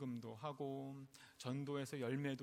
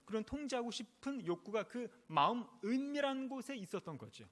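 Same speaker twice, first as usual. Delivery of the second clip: raised, emphatic sermon delivery; emphatic preaching; 6 semitones higher, 4 dB louder than usual. Real, not acted. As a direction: drive the point home to the congregation, pitched up. (힘주어 강조하는 설교조)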